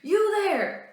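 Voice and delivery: high loud call across the field. Acted. Louis Riel hailing the surveyors, loud call. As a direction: shout to get their attention.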